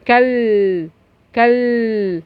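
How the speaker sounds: كل with a long held final L; sukun demonstration. Shown as a demonstration. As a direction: hold the vowelless L closing كل. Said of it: "سكون". (مد اللام الساكنة في كل)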